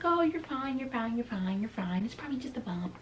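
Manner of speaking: lightly mocked breezy reassurance; dismissive reassuring aunt. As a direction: mimic an aunt brushing off worry. Aunt brushing off her worry.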